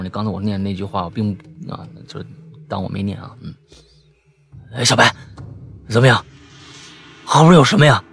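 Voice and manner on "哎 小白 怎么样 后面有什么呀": 响亮地追问; 心虚地大声问; 紧张发问. Acted. 叫小白问后面. (师兄紧张地大声问小白后面有什么)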